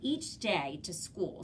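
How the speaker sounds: slow, clear reading aloud; reading to a toddler. Shown as a demonstration. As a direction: read it out slowly for kids. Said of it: "you'll notice they say".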